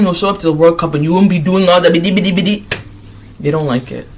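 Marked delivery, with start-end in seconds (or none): 1.9-2.6 mocking babble. Mimicking Ghana fans' talk at the World Cup, mocking babble. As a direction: rattle off mock babble. Imitates the team's boastful chatter.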